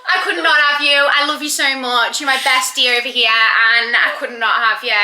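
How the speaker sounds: loud, emphatic declaration of love; heartfelt. Real, not acted. Heartfelt proposal to best friend.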